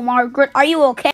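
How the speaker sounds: fast worried shout; fast alarmed shout to Margaret; urgent call. Acted. Calling out to screaming friend.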